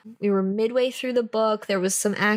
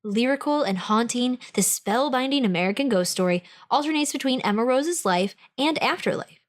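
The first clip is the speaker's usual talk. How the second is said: smooth, measured publisher-blurb reading. Acted. Host finishing the book blurb for listeners, measured blurb read.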